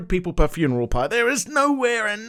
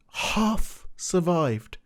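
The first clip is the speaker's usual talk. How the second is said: slow deadpan; 5 dB quieter, much slower than usual. Real, not acted. Sarcastic build to the punchline.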